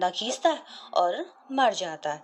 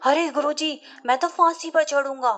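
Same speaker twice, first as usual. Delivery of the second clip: eager shout; 5 semitones higher than usual. Acted. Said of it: "तुरंत चिल्लाता है".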